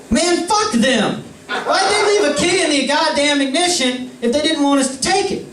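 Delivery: high, laughing mock outrage; laughing scoff. Drunk friend dismisses the note.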